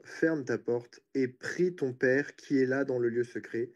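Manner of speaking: measured, emphatic Bible reading; scripture reading. Real, not acted. Preacher reads Matthew's passage to the listeners, measured scripture reading. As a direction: read the verses out deliberately, phrase by phrase.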